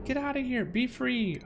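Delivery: panicked alarm. Real, not acted. Duplicant suffocating in game.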